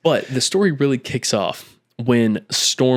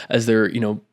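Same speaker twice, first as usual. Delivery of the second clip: normal talking voice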